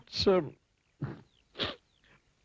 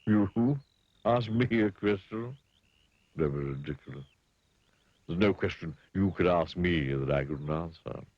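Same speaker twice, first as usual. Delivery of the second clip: rude pig. Acted. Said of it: "grunted the pig rudely".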